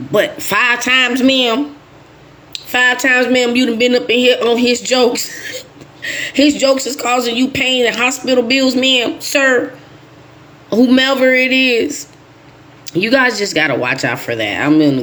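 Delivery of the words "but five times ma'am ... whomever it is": stern nurse. Retold or imitated. Scolding a patient, mock doctor.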